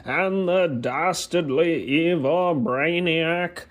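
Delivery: high, slow, booming cartoon announcer; Saturday morning cartoon voice. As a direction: introduce the heroes like an old cartoon narrator. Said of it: "my best impression at the old, uh, Saturday morning cartoon voice".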